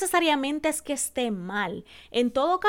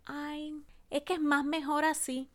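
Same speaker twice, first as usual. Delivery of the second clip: mock wrong usage; 3 semitones higher, 7 dB quieter than usual. Shown as a demonstration. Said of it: "cuando usamos la combinación".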